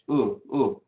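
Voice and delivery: "U" as a short, impure vowel, not the Spanish u; short Hebrew kibutz "U", unlike a pure Spanish u. Shown as a demonstration. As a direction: demonstrate "U" briefly, softly, off the pure Spanish sound. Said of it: "Es más como U".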